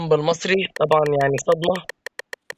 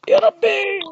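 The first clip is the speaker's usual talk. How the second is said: very high, drawn-out "يا ربي"; shrieked shock; 4 dB louder, much slower than usual. Real, not acted. Gamer shrieks when an unexpected enemy appears. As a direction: stretch the shriek out in fright.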